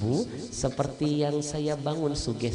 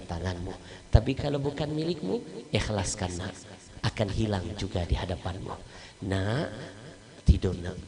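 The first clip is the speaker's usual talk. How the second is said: tender mother; 2 semitones lower than usual. Acted. Mother comforts son at night.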